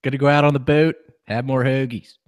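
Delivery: put-on laughing through a jokey Philadelphia accent; Philly accent. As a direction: ham up a Philly local while cracking up. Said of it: "a Yinzer doing a Philadelphia accent".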